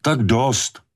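sharp high cry to stop her; shouted order. A narrator's reading. Brody shouting at the mother to stop. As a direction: cut her off, commanding and pleading. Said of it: "vykřikl Brody".

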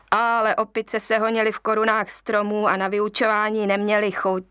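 usual speaking voice

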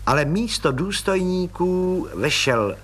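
usual speaking voice

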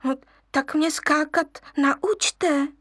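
slow, coaxing plea; wheedling cub. Acted. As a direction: beg sweetly. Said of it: "loudil lvíček".

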